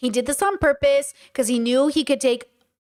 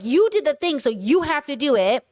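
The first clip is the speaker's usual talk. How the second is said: accusing, as an attack. Shown as a demonstration. Partner blaming the other for what they did, accusing. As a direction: point the finger in the words. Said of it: "which feels like an attack".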